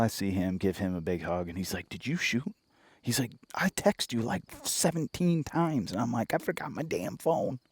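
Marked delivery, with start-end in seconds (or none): 1.9-2.5 higher-pitched imitated question, rising at the end; eager brother. Brother to hunter after the shot, imitated eagerness. 3.5-5.9 much higher-pitched mock complaint; imitated worked-up brother. Brother about unanswered texts, mock exasperated. 6.3-7.6 high-pitched retold comeback; mock protest. Hunter excusing himself to brother, mock protesting. Retells own defensive reply.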